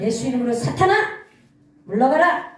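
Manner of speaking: loud command building to the final word; commanding rebuke. Shown as a demonstration. Preacher banishes Satan in Jesus' name, commanding rebuke.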